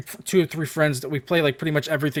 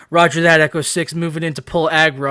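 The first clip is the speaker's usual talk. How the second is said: mock soldier radio talk; 3 dB louder than usual. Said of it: "who talks like this?".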